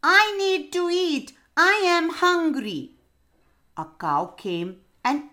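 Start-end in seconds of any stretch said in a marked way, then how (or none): 0.0-3.0 high, loud wailing little parrot; crying loud. A narrator's reading. Hungry parrot wailing to the class, loud crying. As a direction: wail it out hungry. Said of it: "she started crying real loud".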